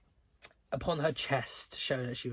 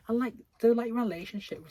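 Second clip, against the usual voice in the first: incredulous; 9 semitones higher, 8 dB louder, faster than usual. Real, not acted. Ranting about twins plot.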